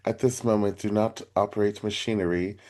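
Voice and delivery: soft, mock British meditation-app voice; lightly imitating a calm British meditation guide; British meditation accent. Host imitating a favorite British meditation guide, softly mock British. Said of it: "has a British accent".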